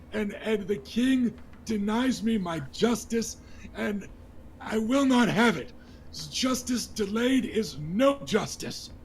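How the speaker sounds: a hint of a break in the voice, pleading; nervous young lord begs the crowd, voice nearly cracking; voice almost breaking. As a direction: hold back tears while demanding justice. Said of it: "his voice almost breaks".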